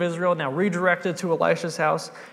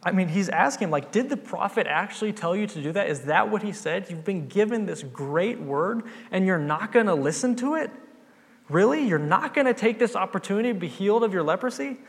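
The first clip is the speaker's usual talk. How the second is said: exasperated pleading, pitched higher; frustrated servant; 4 semitones higher than usual. Retold or imitated. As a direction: urge him not to give up. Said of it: "pretty frustrated with him".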